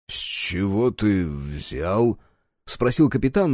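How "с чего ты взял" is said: doubtful, hopeful. Acted. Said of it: "нотки сомнения, а может и надежды".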